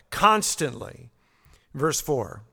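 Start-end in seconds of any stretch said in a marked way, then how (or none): 0.1-1.1 "Constantly" drawn out slowly as one word; slow, emphatic "Constantly"; stress on CONSTANTLY. Shown as a demonstration. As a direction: let "Constantly" stand alone, slow and deliberate. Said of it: "there's that emphasis there".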